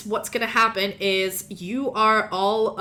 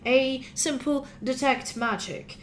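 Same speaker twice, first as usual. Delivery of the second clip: a hint of a droning old professor; 4 semitones higher than usual. Academy director explaining detect magic, lightly droning. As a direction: drone on like a bored academic. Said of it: "his droning voice of a professor".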